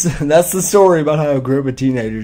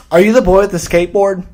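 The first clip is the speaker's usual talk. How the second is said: lightly voiced higher mom question; a hint of a prim mother asking; mocking the mom; 7 semitones higher, 4 dB louder than usual. Imitating the angry mom confronting him, lightly raised. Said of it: "she said".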